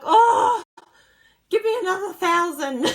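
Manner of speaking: high, loud, gushing mock order; playful over-the-top excitement; overexcited squeal. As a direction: shriek it like a thrilled buyer. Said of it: "And I was like".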